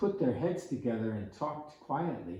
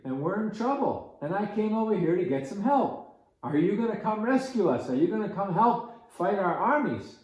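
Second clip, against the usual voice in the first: put-on higher, louder odd old hermit voice, faster at the end; an otherworldly hermit urgently repeating his plea; strange hermit voice; 4 semitones higher, 4 dB louder than usual. Hermit begs campers for rescue.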